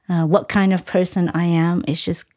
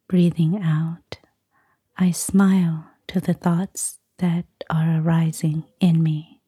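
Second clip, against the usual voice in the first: guided meditation. Acted. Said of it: "give us a short guided meditation".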